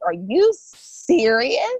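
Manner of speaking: slowed, drawn-out are you serious; slow stunned retold disbelief. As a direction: stretch each word in shock. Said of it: "I remember you being like".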